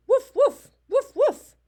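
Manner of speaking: loud, high, short woofs; dog bark. Acted. Reader plays the big red dog, loud high barks. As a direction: bark sharply in pairs like a dog.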